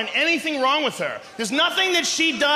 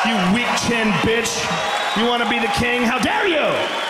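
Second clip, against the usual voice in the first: mock outrage. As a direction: bark it like a scolding. Ranting at Santorum.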